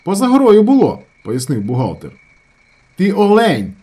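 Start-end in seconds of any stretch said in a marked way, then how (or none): 0.0-1.0 high, loud, falling on було; insistent shout. A narrator's reading. Accountant shouts at the opposing team, insistent. 3.0-3.7 high, loud jeer; yelled insult. A narrator's reading. Andriukha yells at the accountant, jeering.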